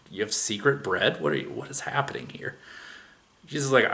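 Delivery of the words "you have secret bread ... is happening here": hushed disbelief. Retold or imitated. Disciples' baffled aside.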